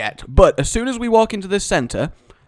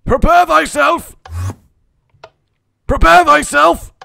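higher, louder grand proclamation; dramatic herald; 11 semitones higher, 6 dB louder than usual. Acted. Dramatic announcement before map.

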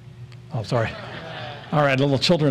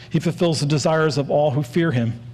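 "all" given extra weight; stress on "all". Shown as a demonstration. Preacher reading a Psalm to the church, emphasis on "all". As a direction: read it out, leaning on "all". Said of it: "I'm gonna emphasize the word all".

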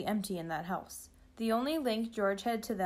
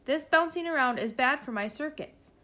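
lightly voiced, high-pitched computer; mechanical computer voice; 5 semitones higher, 4 dB louder than usual. A narrator's reading. Jostled computer complains from the backpack, mechanical voice. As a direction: complain as a fussy machine, pitched up. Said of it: "said the voice inside the backpack".

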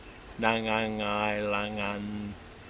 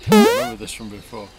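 very high, fast laughing remark; 11 dB louder, faster than usual. Real, not acted. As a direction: laugh through the words.

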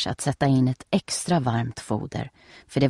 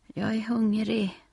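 whining; 6 semitones higher than usual. A narrator's reading. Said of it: "gnäller Nelly".

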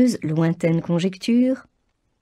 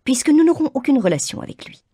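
high, louder fretful complaint; a nervy mother protesting; nervy mother voice, pitched high; 8 semitones higher, 5 dB louder than usual. A narrator's reading. Mrs Bennet voice.

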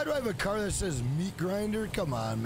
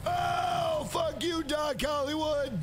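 high angry yell at a rival; gaming shout; 5 semitones higher, slower than usual. Real, not acted. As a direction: bellow at the opponent. Shouting at opponent car.

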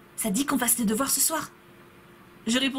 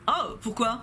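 usual speaking voice

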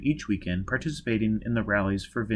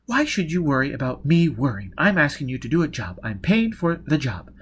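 slightly higher, testy woman character; lightly raised, insistent character voice; Jiz, impatient client; 4 semitones higher, 4 dB louder than usual. Acted. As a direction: argue impatiently with the hired doctor. Voices Jiz arguing with Baker.

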